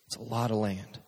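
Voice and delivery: quiet aside. Acted. Preacher musing to crowd, quietly understated. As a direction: drop it under your breath.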